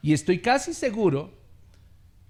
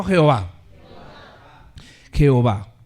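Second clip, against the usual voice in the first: congregation call-and-response; 4 semitones lower, 8 dB louder than usual. Shown as a demonstration. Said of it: "Diga conmigo".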